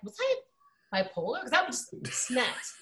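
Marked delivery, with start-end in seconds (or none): 0.0-1.4 half-joking self-question fading away; wondering aloud. Retold or imitated.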